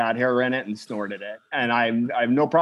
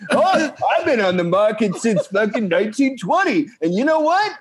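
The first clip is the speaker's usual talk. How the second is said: grumbling out of touch boomer; 6 semitones higher than usual. Retold or imitated. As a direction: play a boomer scoffing at kids. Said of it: "my boomer fucking impression".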